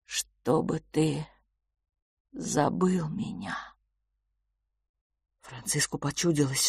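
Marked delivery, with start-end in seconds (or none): 0.0-3.6 slow whisper; quiet exhale. Acted. Brother quietly breathes out his answer, whispering. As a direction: breathe it out barely audible. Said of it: "тихо выдохнул Филипп".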